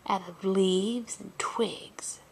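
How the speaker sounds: gentle bedtime storyteller, unhurried; storybook narration for little ones; story narration. A narrator's reading. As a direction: read it like a picture book to a child.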